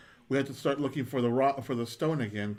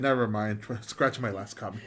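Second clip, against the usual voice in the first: comic retraction; 4 semitones lower than usual. Acted. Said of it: "And then he said".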